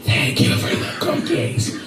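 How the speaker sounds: high, whispered sweet thank-you; mock polite thanks. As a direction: fake innocent sweetness, laughing. Kids mock-thanking cookie worker.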